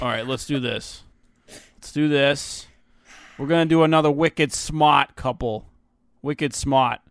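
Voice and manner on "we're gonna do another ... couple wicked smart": put-on Boston accent, dropped R in smart. Host introducing the next smart couple, mock Boston accent. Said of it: "how does a Boston person say".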